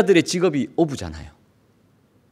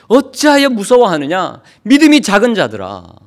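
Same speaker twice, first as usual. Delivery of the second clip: louder, higher thundering scolding; loud rebuke; 4 semitones higher, 5 dB louder than usual. Acted. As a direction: scold the fearful disciples at full voice. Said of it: "큰 소리로 호통을 치십니다".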